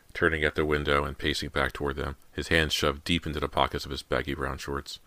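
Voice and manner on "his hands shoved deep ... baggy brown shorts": ordinary delivery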